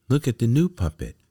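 high, loud, quick call from the crowd. A narrator's reading. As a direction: shout it out excitedly to everyone. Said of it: "someone called".

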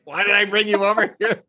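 mock whine. Imitating friend's regret.

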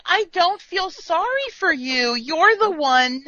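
emphatic telling-off, leaning on key words; indignant scolding. Acted. Fan telling Riker he chose career over her, indignant. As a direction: lay out the blame point by point.

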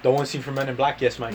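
Aussie explainer, pausing between phrases; mock Australian accent. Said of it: "Australia, mate".

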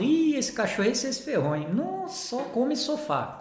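warning dog owners. Retold or imitated. Dog owners answering his question about the puppy, mock dismay. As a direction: imitate owners with swooping, exaggerated exclamations. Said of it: "aí eu pergunto".

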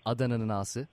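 letter by letter, naming a town for each; spelling it out. Shown as a demonstration. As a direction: spell it out like over a bad phone line. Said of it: "kodluyorum şimdi harfleri".

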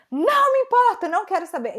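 high, loud mock yell; angry dismissal. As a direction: shut her down in a piercingly high imitated shout. Retold shouting woman cuts her off.

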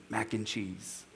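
put-on soft, giggly whisper of a toddler's secret; hushed and amused, barely voiced. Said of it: "whisper a minute, she just says".

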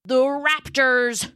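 slow, weighty reveal; dramatic reveal. Acted. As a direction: drag it out for suspense. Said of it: "pausing for dramatic effect".

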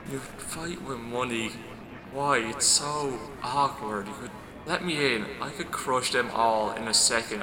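whisper-soft, like sand scraping over glass. Acted. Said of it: "like sand on glass, it sounds like".

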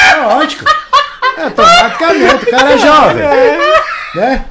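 high, loud words through laughter; real laughing explanation. Real, not acted. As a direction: talk while still cracking up. Laughing at own story.

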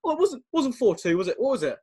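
a muddled pundit doubting the score; imitating Jack Charlton. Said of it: "He goes".

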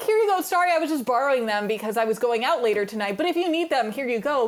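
breezy Nellie. Retold or imitated. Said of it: "And she's like".

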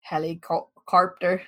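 attempted Aussie "carpter" with an added R; Aussie accent, feeling out the R in "carpter". Shown as a demonstration. Woman showing how Aussies say helicopter, attempted Aussie accent. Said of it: "They put R's on everything".

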